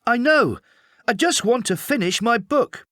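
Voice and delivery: a kid caught out, playing it cool; child voice. A narrator's reading. Boy hiding under covers answers his mum, high child voice.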